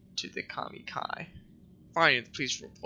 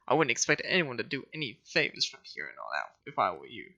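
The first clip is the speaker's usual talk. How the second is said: snobby voice; faster than usual. Acted. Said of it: "a snobby voice".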